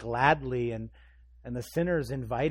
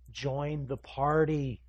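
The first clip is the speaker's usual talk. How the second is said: slow, drawn-out invitation; measured urging; 3 dB louder, much slower than usual. Acted. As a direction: urge them slowly, holding back the volume. Jesus urging, first take.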